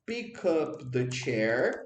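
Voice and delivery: slow, careful teacher model; slow model phrase. Shown as a demonstration. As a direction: lay it out slowly for students. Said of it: "você pode tanto falar assim". (frase modelo lenta e clara)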